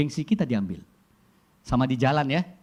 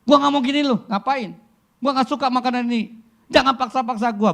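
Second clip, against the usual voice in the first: high, loud whiny tantrum; bratty teenager; 10 semitones higher, 6 dB louder than usual. Retold or imitated. Preacher imitating a spoiled kid yelling at parents.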